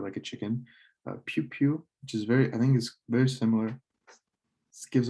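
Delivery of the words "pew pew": chick peep demo. Shown as a demonstration. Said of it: "a baby chick".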